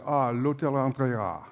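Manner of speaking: slow French reading of l'Hotel Andrea with the stress held back to the final syllable; French accent. Retold or imitated. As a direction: say "l'Hotel Andrea" the French way, level, landing on the end. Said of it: "The accent heads toward the end there".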